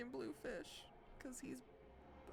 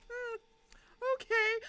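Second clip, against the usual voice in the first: much higher, slow put-on chill voice; chill Katayama; 7 dB louder than usual. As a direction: play him unbothered, drawn out and high. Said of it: "He's just like".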